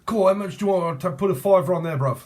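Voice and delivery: mock British gambler calling out a bet; British punter impression. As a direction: put on a laddish British punter. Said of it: "I can hear British people do that normally".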